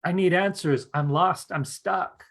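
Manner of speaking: a lost stranger begging at your door; desperate visitor at the door. Pretend. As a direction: play someone lost and begging for help. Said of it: "you're like".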